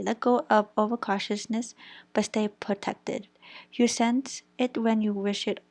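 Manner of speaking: firm, even read-aloud delivery; steady recital from a card. Real, not acted. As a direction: read out a crystal's meaning to viewers. Reads out the crystal's definition.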